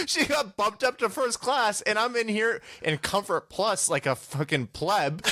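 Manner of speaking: high-pitched, drawn-out comic outrage; mock-aggrieved squeal, slowly spelled out; indignant. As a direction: whine the injustice, hammed-up. Outrage at wife's upgrade.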